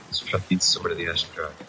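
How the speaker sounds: near whisper. Acted. Crewmate finishing his tale of the skeleton fight, hushed. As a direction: drop your voice as the tale ends.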